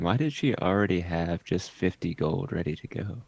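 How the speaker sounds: a touch of a stage whisper, still voiced; conspiratorial aside. Player quietly questions Sean about the gold, hushed aside. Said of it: "I kind of whisper to Sean".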